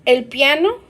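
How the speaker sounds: "El piano" rising on "piano"; teacher repeats the rising ending. Shown as a demonstration. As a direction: push "piano" up at the end. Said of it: "it goes up".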